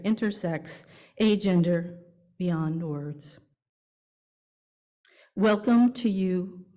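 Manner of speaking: slow, measured liturgical reading; welcome liturgy. Real, not acted. Worship associate reading the welcome to the congregation, measured. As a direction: read the welcome like a gentle litany. Reads formal welcoming words.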